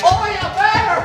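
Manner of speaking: loud, high whoop; excited shout. Acted. Actor cheers the bear with a loud, high whoop.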